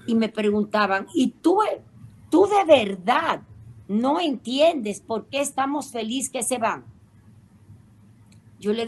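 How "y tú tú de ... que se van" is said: incredulous sisters. Retold or imitated.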